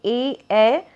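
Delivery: ए drawn out slowly; slow vowel demo. Shown as a demonstration. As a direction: stretch ए from throat to palate. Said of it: "तालु पे भी जीभ touch हो रही है".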